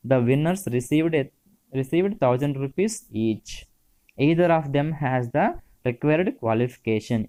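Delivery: each word laid out slowly for students; very slow classroom dictation. Shown as a demonstration. Teacher dictating example sentences.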